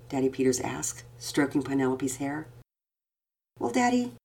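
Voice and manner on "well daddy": put-on high little-girl voice, close to tears; cling to hope in a child's voice; desperate little girl. A narrator's reading. Daughter at bedtime telling her father she despairs. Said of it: "she said desperately".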